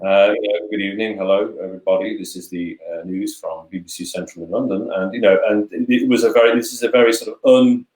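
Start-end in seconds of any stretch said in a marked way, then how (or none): 0.7-4.9 put-on old BBC newsreader. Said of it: "this is a very neutral accent".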